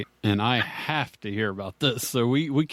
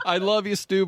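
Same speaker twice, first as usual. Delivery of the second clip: mock American accent; 8 semitones higher than usual. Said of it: "did an impression of an American".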